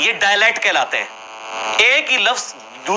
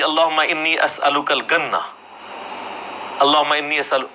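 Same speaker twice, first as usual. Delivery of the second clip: mock Egyptian Arabic; 3 semitones lower than usual. Preacher mimics the Egyptian imam leading the village prayer, in a mock Egyptian Arabic accent. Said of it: "تو اس نے دعا کی".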